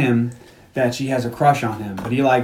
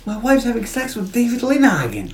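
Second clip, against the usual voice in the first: put-on drunk complaint; 8 semitones higher, 3 dB quieter than usual. Drunk Cal repeats to girl.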